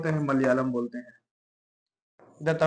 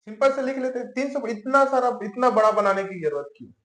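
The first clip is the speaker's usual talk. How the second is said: higher, louder, exasperated why-so-long; mock complaint; 5 semitones higher, 4 dB louder than usual. Teacher mimicking a student's complaint about long paragraphs, mock exasperated. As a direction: whine like a fed-up student.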